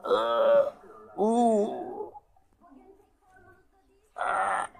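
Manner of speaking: mock groaning under heavy weight; hammed-up crushed groaning. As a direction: ham up being flattened, groaning. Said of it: "damper gibi ağır be".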